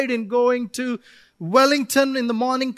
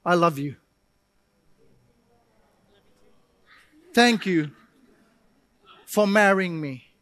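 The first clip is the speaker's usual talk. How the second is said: sincere tender words; 4 semitones lower than usual. Retold or imitated. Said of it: "sitting down and saying".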